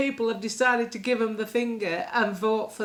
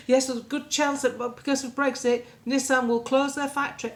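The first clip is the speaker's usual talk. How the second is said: mock newsreader; 4 semitones higher, 4 dB louder than usual. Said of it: "sitting there with a straight face saying".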